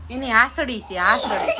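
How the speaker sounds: giggling at the word; amused, laughing aloud. Real, not acted. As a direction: say it through a laugh. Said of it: "laugh heard".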